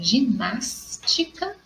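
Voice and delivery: "ginástica" with NÁS stretched out; teacher sounding out "ginástica", stressing NÁS. Shown as a demonstration. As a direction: hold the syllable NÁS in "ginástica". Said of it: "a minha sílaba tônica é no nas".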